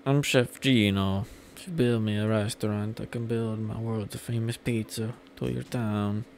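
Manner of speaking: drawn-out Italian chef accent, lightly voiced; a hint of Italian accent, words stretched; attempted Italian accent. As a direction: slowly attempt an Italian pizza chef's accent. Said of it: "be, be better with accents".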